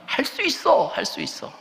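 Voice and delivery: high-pitched pep talk, second time dropping away; confident self-talk. Acted. Believers telling themselves they can do it, high eager confidence.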